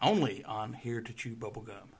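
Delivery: measured public-radio host delivery; lightly put-on radio presenter; NPR voice. Real, not acted. Host signing off a segment for listeners, NPR voice. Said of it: "I like your N P R voice".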